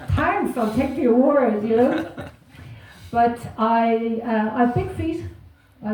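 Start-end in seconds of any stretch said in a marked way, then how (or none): 0.1-1.6 dry sarcasm. Retold or imitated. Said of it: "I'm like".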